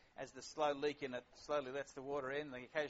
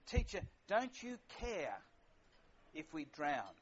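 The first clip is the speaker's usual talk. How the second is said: mildly incensed; slower than usual. Retold or imitated. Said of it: "they seem to get a bit incensed".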